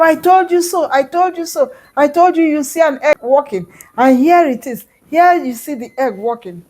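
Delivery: excited gloating. Acted. Tortoise gloats to the amazed villagers, excited. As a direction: crow it, bouncing with glee. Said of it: "jumping up and down in excitement".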